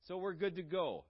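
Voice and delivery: breezy, complacent conclusion; mock self-assurance. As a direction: voice a self-satisfied excuse, pitch held up. Complacent claim, then refuted.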